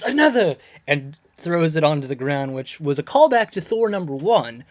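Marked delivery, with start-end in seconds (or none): 0.0-0.6 high, loud demand for another drink; mock bellow. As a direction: slam it down like a god ordering a refill. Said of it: "he says".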